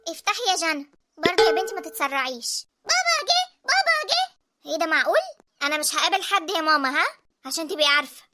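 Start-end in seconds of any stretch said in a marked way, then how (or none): 2.8-4.4 excited call. Acted. Child calls out father arrived.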